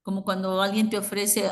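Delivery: ordinary talk, nothing marked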